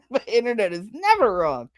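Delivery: laugh, then swoop up on never; exaggerated sarcasm. Mocking those who trust the internet, hammed-up sarcasm.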